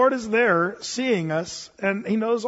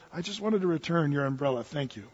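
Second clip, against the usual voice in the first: quiet queen; 4 semitones lower, 7 dB quieter than usual. Acted. Queen speaks calmly.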